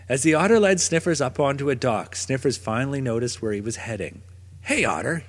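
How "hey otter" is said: a mild gruff call; a touch of a growl. Acted. Dog calling the otter again, mild growl. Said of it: "he growled".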